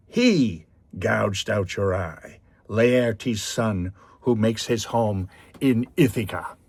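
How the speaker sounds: loud, slow boastful yell at the Cyclops; angry taunt. Retold or imitated. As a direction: shout the taunt back across the water, slow and proud. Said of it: "with another burst of anger".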